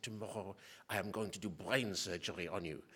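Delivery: imitating a thick Egyptian accent, lightly; a neurosurgeon's Egyptian-accented announcement, mildly imitated. Egyptian surgeon telling patient about surgery, light Egyptian accent. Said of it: "so he had a nice thick accent".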